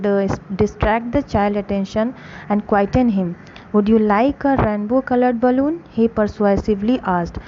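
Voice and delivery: slow, careful read-aloud for a class; story narration. A narrator's reading. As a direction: read each phrase slowly for students. Slow English story reading.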